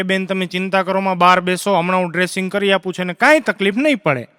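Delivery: lightly voiced calming doctor; mock reassuring. Doctor sends worried mother outside, mildly reassuring. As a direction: settle an anxious mother, a touch subdued.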